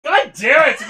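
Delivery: high, loud laughing curse; exasperated shout. Real, not acted. Player handed a bad card by a friend, exasperated shout. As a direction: yell in playful frustration. Frustrated at card passed in game.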